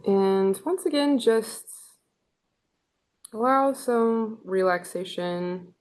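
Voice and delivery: unhurried instructions with long pauses between phrases; measured meditation-leader delivery; guided meditation. Real, not acted. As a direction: guide listeners gently into stillness, leaving space after each line.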